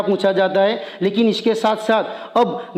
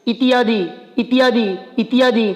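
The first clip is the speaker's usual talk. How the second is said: fast. Shown as a demonstration. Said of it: "तो यहाँ भी तुम फास्ट बोलोगे".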